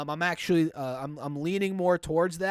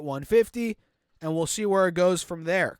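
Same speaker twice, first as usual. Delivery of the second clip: cracking voice from a cold; 3 dB louder than usual. Real, not acted. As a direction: voice breaking on the words. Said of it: "Voice crack central here".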